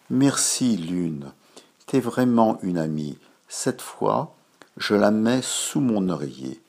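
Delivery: put-on grateful happy boy. Boy thanks the moon excitedly.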